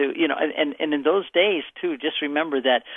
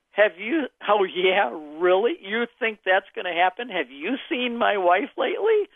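higher, mocking "really?" from an old man who won't buy it; scoffing disbelief; 5 semitones higher than usual. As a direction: scoff at the news, pitch up, drag out the last line. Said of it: "a statement of unbelief".

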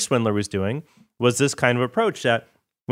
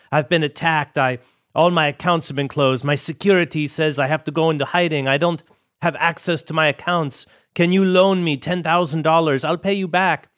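higher-pitched imitation of a pleading swindler; mock urgent plea; 5 semitones higher than usual. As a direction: act out a con man's appeal for a loan, mildly hammed-up. Acts out swindler begging for money.

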